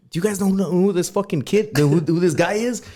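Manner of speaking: high-pitched retold amazement; incredulous manager. Host as manager questioning young store staff, mock disbelief.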